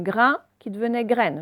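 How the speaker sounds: nasal vowel in "grain", sounded n in "graine"; contrasting endings. Shown as a demonstration. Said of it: "ça va faire N".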